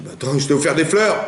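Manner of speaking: indignant protest. Acted. Guest whose flowers were binned, indignant. Acts out shocked visitor with flowers.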